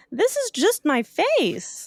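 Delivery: high, slow deadpan voice; a fish that cannot help its scary face; deadpan anglerfish. Acted. Anglerfish telling Opal, slow and deadpan. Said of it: "the anglerfish says".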